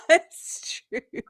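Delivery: breathless laughing words; laughing, mostly unvoiced. Real, not acted. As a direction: laugh the words out, barely voiced. Laughing after joke.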